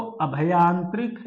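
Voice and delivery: अभयांत्रिक with short a and no i after bh; short a, then bha in अभयांत्रिक; spelling option read out. Shown as a demonstration. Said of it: "शुद्ध शब्द बताना है".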